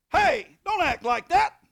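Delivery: slow, high, loud command; stern shout. Retold or imitated. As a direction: bellow it at the possessed man. Confronting the possessed man.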